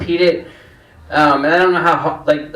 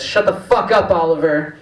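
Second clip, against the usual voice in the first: lightly voiced toddler, a hint of little kid; a hint of a small child swearing at his brother. Three-year-old telling his older brother off, lightly voiced toddler. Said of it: "in, like, his little toddler voice".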